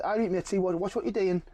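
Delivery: retold Geordie warning; Geordie bouncer. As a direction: put on a bouncer's Geordie accent. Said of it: "this Geordie bouncer was like".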